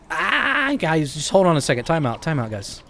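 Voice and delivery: rushed plea to wait a second; flustered time-out call. Real, not acted.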